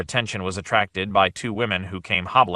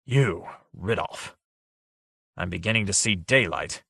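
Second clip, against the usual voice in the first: baleful; 3 dB quieter than usual. Acted. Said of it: "the baleful aura of his thoughts".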